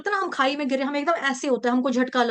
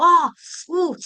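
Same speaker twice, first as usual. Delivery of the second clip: mock pain groan; 3 semitones higher, 6 dB louder than usual. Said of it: "ऐसे करते हैं".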